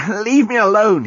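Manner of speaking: loud growled warning. A narrator's reading. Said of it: "he growled".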